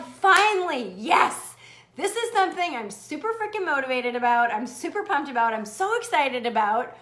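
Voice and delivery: loud start easing into fast gushing; pumped-up, rapid enthusiasm; acted excitement. Host acting out someone newly motivated, excited. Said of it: "you get really freaking excited".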